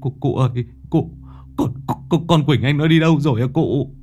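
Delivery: put-on tearful, broken pleading to the old woman; stammering through sobs, high and shaken; whimpering. A narrator's reading. Husband begs the old woman about his missing daughter, tearful. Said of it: "Anh Thiên mếu máo".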